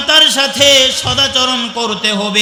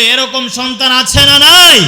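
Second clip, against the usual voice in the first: loud call to crowd; 5 dB louder than usual. Real, not acted. Preacher demanding the congregation answer aloud. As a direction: shout the question out to the crowd. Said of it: "আওয়াজ করে বলতে হবে".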